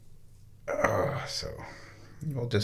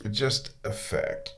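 slow, deliberate "Just a fact"; drawn-out "just"; slow emphatic repeat; 4 dB quieter, slower than usual. Shown as a demonstration. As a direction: lean on "just" slowly. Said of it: "That is just a fact".

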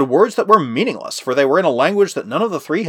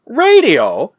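higher, louder surprised query; exclaimed question; 7 semitones higher, 6 dB louder than usual. A narrator's reading. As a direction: echo the word with rising disbelief. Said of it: "exclaimed Jack".

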